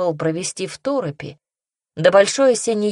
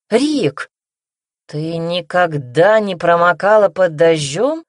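surprised realisation; 5 dB louder, slower than usual. Acted. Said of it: "догадался парень".

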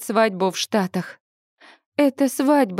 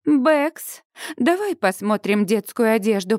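ordinary delivery, nothing marked

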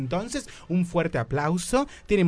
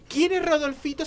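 dramatic question; 11 semitones higher than usual. Acted.

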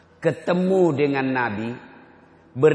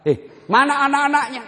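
startled question; 13 semitones higher, 6 dB louder than usual. Retold or imitated.

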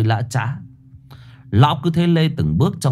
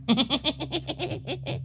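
much higher, soft mischievous giggle; 11 dB quieter than usual. A narrator's reading. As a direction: giggle like a naughty kid. Boy laughs after farting.

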